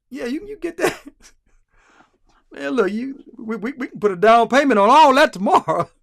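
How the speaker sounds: high-pitched, excited yes, building to loud; eager suitor. Acted. Suitor agreeing to the young woman's dowry, hammed-up eagerness. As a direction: jump at the offer, voice shooting up.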